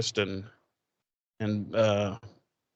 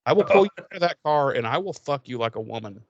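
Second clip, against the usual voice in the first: mock thug threat. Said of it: "I thought you were gonna say".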